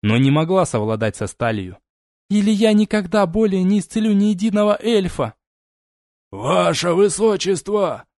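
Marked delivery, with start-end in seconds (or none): 2.3-5.3 angry threat. Acted. Captive princess threatens. 6.3-8.1 high, slow formal address; formal elf envoy. Acted. Ambassador addresses princess.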